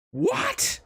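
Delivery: very high, loud shocked what; shocked exclamation. Acted. Friends shocked by Snake's secret, high shriek. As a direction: shriek it in disbelief.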